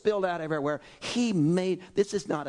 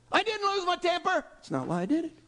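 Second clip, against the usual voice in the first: ordinary talk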